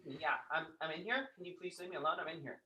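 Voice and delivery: low hushed mysterious woman. Acted. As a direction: speak low and secretive, like a mysterious agent. Trinity voice from bathroom.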